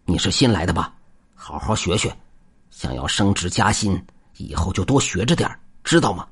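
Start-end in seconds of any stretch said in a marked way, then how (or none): 1.3-6.3 lecturing tone. Acted. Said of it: "一副老师教导学生的模样说道".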